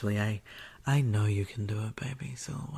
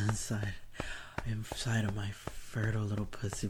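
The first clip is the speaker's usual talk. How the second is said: whispering. Acted. Whispered roleplay.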